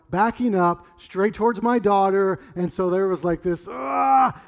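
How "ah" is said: raised, loud "ah" of alarm; imitated cry of sudden panic. Father seeing a car back towards his daughter, alarmed cry. Retells alarm before yelling stop.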